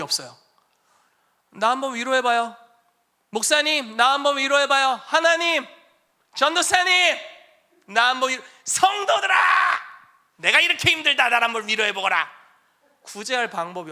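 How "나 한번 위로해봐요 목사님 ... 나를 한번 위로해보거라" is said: high, loud mocking whine of a needy believer; whining demand for comfort. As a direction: demand comfort in a higher, louder, petulant voice. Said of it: "자기중심적으로 막 원망을 해요".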